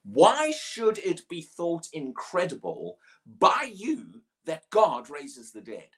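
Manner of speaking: slow, measured reading of the verse; preacher reading the question from Acts, slow and measured; scripture reading. Shown as a demonstration. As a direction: read the verse slowly and deliberately. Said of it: "He says this".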